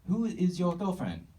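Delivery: put-on high-pitched student in a clumsy Asian accent; bad Asian accent. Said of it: "I'm just really bad at accents".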